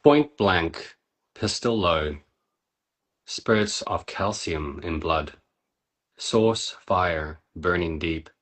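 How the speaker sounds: slow, measured poem reading with weighty pauses. Acted. Reading a friend's poem aloud to the group, slow and measured. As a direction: read each image like it lands hard.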